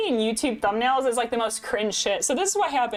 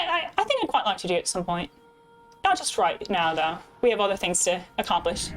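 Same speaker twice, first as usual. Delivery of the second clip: put-on, jokey British accent; bad British accent. Streamer addressing viewer Layla, bad British accent. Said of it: "this is my bad British accent".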